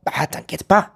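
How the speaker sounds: relaxed native-style "Ah, t'inquiète pas"; easy spoken "t'inquiète pas", no ne; casual French phrase. Shown as a demonstration. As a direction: toss it off like a friend. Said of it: "expresiones como".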